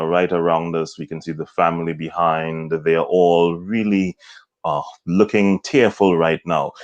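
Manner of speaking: solemn, measured news reporter; subdued, hesitant on-air delivery; Martin Savage's somber report. Shown as a demonstration. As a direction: report gravely beside a grieving family. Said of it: "Martin communicated the emotion and the mood".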